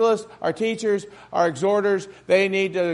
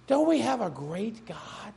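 soft repeat; 8 dB quieter than usual. Shown as a demonstration. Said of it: "repeated quieter".

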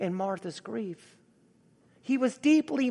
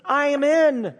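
raised, higher-pitched imitation of an anguished plea; crying out; 4 semitones higher, 4 dB louder than usual. Preacher voices David pleading to God, crying out. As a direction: voice David's cry with preacherly force. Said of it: "He's crying out to God".

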